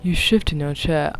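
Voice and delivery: put-on half-hearted British accent, low; amateur British lilt with a dropped R in "chair"; attempted British accent. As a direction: try a bad British accent. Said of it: "I can't read it in a British accent".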